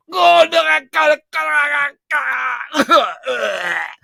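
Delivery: hammed-up scream of a Scot run through; impaled Scottish victim's dying scream; gut-run scream. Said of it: "painful run through the gut Scottish scream".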